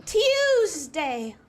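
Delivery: "Tuesday" firmly, as T-yooz-day; crisp, emphatic T-yoo in "Tuesday"; Queen's English pronunciation. Shown as a demonstration. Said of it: "pronouncing Queen's English".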